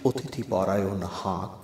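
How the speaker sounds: measured, declaimed verse with drawn-out phrase ends; poem recitation. Acted. Poet recites own lines for hosts and listeners, declaimed. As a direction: recite it as a poem, leaning on the refrain.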